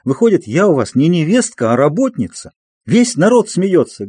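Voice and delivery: hurt and furious, letting it all spill out; tearful outburst. A narrator's reading. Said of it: "вдруг зарыдала".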